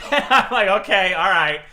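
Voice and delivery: laughing hard, high and loud; cracking up at the absurdity; loud laughing aside. Real, not acted. Laughing at manager's reply.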